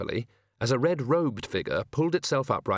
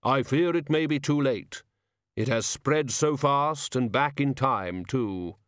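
slow, deliberate solemn figure; slow heavy voice; 3 semitones higher, slower than usual. Acted. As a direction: weigh each word heavily. Hooded figure talking.

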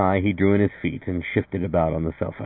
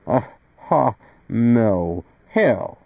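higher-pitched, halting mock laugh; anxious laugh; 4 semitones higher, much slower than usual. A narrator's reading. Art turning down a visitor's offer, mildly anxious laugh. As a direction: narrate a nervous, half-hearted laugh. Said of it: "Art laughed anxiously".

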